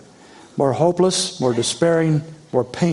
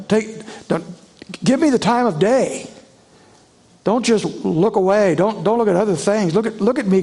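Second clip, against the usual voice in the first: raised, pleading voice of a desperate man; David's plea; 3 semitones higher than usual. Acted. Preacher voicing David begging God to look at him, raised and pleading. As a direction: beg God to look at you. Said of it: "he cries out".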